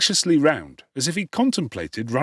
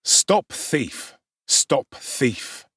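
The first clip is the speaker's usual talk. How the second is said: mild mock shout; 3 semitones higher, much slower than usual. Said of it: "roaring and shouting".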